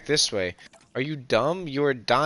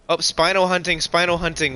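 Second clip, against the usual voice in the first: excited; 5 semitones higher, 3 dB louder than usual. Real, not acted. Excited hunt spotted.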